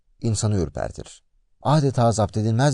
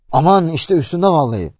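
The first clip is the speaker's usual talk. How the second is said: higher, louder storyteller's cry of panic; acted alarm, pitched up and pushed; 6 semitones higher, 6 dB louder than usual. A narrator's reading. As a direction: voice a frightened man's urgent warning. Terrified customer cries out in story.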